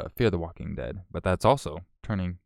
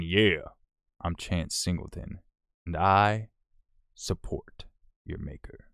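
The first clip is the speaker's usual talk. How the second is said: slow, halting mock fan voice; lightly voiced silent supporter; slower than usual. Streamer voicing a silent donor, mock fan voice.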